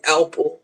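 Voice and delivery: APPLE turned into ALPO, with an L after the A; mimicked mispronunciation. Friend mimics the host's accent, saying ALPO for apple. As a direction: imitate a muddied APPLE that comes out ALPO. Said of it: "It sound like you saying A L P".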